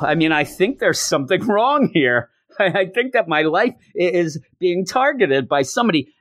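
hammed-up growing paranoia; mock dawning alarm. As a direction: build from puzzled to high-pitched alarm. Acting Matt's dawning paranoid realization.

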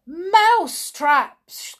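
high, loud crowd exclamation; excited cry. Acted. Witches echoing their leader, high excited cry. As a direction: echo it in a thrilled shout. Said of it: "cried the witches".

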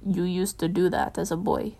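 low, soft-spoken father line; said quietly. A narrator's reading. Bruce to Dick after the dishes, quietly. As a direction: say it quietly to his grown son. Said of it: "Bruce said, quietly".

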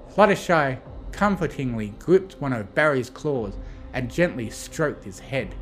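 usual speaking voice

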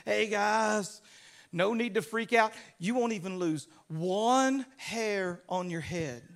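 mildly acted calm reassurance; peace like a river. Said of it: "He's peace like a river".

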